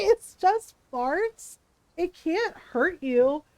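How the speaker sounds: slow, incredulous reasoning; exasperated protest. Retold or imitated. Wife defending Ron's farts to the bully, exasperated. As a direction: drag out each phrase in disbelief. Defending Ron in retold quarrel.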